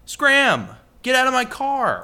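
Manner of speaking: shouted high and loud, playfully; mock yell. Co-host shouting at a pretend passenger, mock angry yell. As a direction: yell them out of the car in jest. Mock kicking listener out of car.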